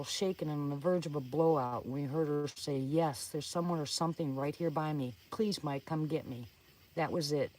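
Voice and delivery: energetic suspense story reading; dramatic first-person storytelling; story narration. Acted. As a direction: read a scary campfire story with urgency. Reads own suspense story aloud.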